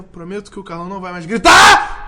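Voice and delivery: loud playful shout; joking shout. Acted. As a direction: yell the promise for a laugh. Jokingly shouts promise not to shout.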